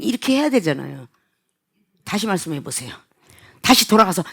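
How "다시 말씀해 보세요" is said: low, very soft request to repeat; calm request. Acted. Customer asking to hear it once more, soft and calm. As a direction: ask gently and quietly, well down in pitch. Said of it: "이거 화가 나는 거죠?".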